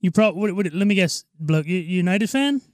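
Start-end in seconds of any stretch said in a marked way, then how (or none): 1.4-2.6 put-on British accent slipping toward Australian; attempted British accent. Friend put on the spot as British guy, shaky-footed British accent. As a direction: try a British football fan. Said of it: "that was, that was Australian".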